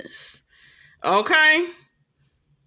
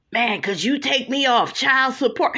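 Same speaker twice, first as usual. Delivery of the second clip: imitating hemming and hawing. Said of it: "hemming and hawing".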